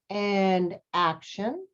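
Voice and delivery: director calling action. Shown as a demonstration. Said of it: "the director will, will say".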